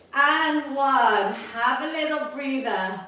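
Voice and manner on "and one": louder on the last count; punchy final count. Real, not acted. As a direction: land the last count hard for the class. Coach ending countdown.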